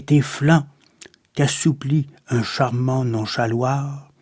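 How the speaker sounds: measured, subdued poem reading with pauses; solemn, restrained verse reading; poetry recitation. Acted.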